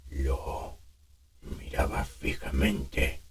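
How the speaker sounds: put-on slow, soft, rasping old man; raspy smoker voice. Shown as a demonstration. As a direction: breathe it out rough.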